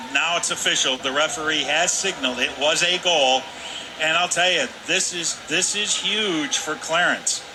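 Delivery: loud, emphatic confirmation of the goal; emphatic excitement. Real, not acted. Analyst telling viewers the goal officially counts, emphatic and excited. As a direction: drive home how big this is.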